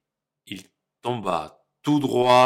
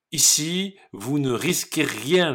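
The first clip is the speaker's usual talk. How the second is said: little pig voice; 6 semitones higher, 3 dB louder than usual. Acted. Brother reassures the pigs.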